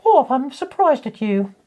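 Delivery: high, slow, hammed-up scolding; mock Troi. Retelling Troi teasing Worf, high mock scolding voice. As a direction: tease Worf like a prim officer. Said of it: "Troy and Riker are like".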